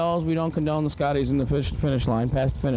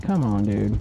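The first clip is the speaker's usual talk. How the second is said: mocking a coach's southern accent; 6 semitones lower, slower than usual. Mocking the Notre Dame coach's put-on southern accent. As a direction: lower mock southern drawl. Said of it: "started right in with his southern accent".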